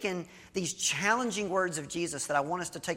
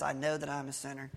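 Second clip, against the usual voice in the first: softer and faster, rattled off as a repeat; quick quiet echo; 5 dB quieter, faster than usual. Retold or imitated. The guy echoing the older man's line, softly and fast. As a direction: mumble it back quickly, just going along.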